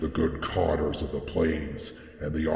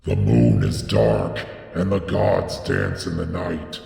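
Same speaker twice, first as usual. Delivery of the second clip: high, loud ecstatic shrieking, building higher to the end; frenzied prophet shrieking higher and higher; shrieking in the shadows; 5 semitones higher, 6 dB louder than usual. A narrator's reading. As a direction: cry it out, climbing higher as the awe grows. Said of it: "he heard Barzai the Wise shrieking in the shadows".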